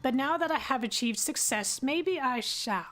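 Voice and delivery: lightly voiced prospector reading his journal; miner's voice. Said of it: "I get to do my miner's voice again".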